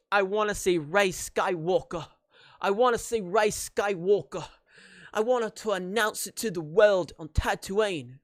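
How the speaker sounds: lightly faked British accent; terrible British accent. Fan wishing for the leaked ending, terrible British accent. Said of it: "That's probably a terrible accent".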